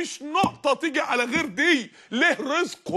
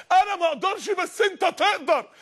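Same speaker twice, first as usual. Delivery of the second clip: higher and slow, "انا ما اقدرش" pleading to God; pleading prayer; 6 semitones higher than usual. Retold or imitated. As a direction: beg it slowly, heart broken. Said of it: "الراجل خرج قعد يعيط". (دعاء متوسل ببطء وبصوت أعلى)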